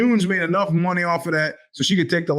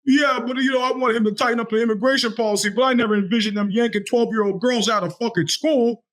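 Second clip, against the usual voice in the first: imitating Trump fans; 5 semitones higher than usual. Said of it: "the numbers of people now who are like".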